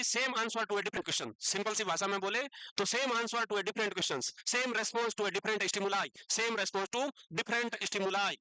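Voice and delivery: very slow, word-by-word dictation; teacher dictating definition. Shown as a demonstration. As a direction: spell it out slowly for notes. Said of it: "teacher dictating slowly".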